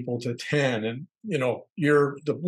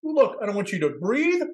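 higher mock rant; man yelling at the driver, mock angry; imitated angry rant; 6 semitones higher than usual. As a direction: spit it out like the stranger. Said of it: "he's yelling at me like this".

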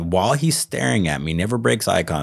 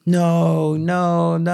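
high pitched mock wail of no; retold wailing; 12 semitones higher, 3 dB louder, much slower than usual. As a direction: imitate a man wailing in panic. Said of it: "screaming and crying, wailing".

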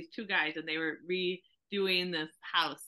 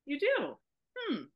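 disappointed hm; 7 semitones higher than usual. Retold or imitated. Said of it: "he goes".

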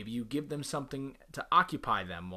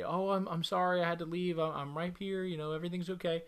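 higher, fussing over the dog apologetically; mock fussy owner; 5 semitones higher than usual. Owner apologizing to the dog on coming home, mock fussing. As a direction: gush sorry at the dog, a bit higher. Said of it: "Don't say".

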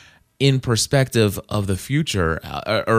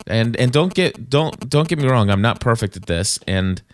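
buzzing in background. Real, not acted. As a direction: speak over an electric buzzing noise. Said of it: "sorry about the, uh, buzzing in your ears there".

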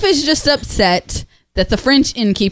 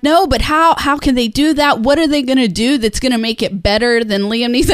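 retold skeptical objection. Friends doubting a remake of a favorite musical, retold skepticism. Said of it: "And they're like".

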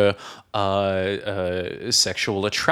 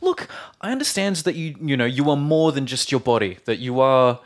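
pretend persuasive pitch. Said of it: "you would say to the woman".

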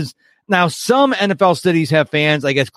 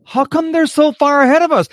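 mock whiny question; 10 semitones higher than usual. Imitating people left behind.

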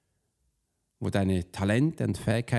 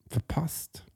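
whispered, breathy, much softer; 6 semitones higher, 5 dB quieter than usual. Acted. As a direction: let the word fade into a whisper. Trailing off to a hush. (geflüstert, sehr leise)

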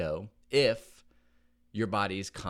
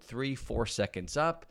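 slow counting; slower than usual. Shown as a demonstration. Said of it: "It's slow and controlled".

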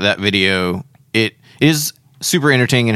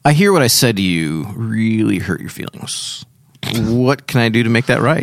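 stilted Star Trek. Shown as a demonstration. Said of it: "are we in an episode of Star Trek".

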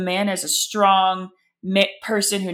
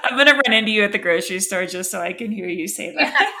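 laughing; 4 dB louder, faster than usual. Real, not acted. Laughing after the joke.

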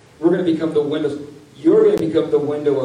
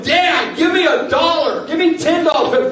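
put-on higher, begging child voice; whiny kid begging; 11 semitones higher, 3 dB louder than usual. Kid begging dad for money, whiny and pushy. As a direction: play the kid pestering dad for cash.

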